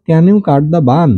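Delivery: each word slow and separate, pitch up; slow model reading. Shown as a demonstration. Teacher models the book line for pupils, slow and clear. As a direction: spell the question out slowly for the class. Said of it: "এখানে বলছে".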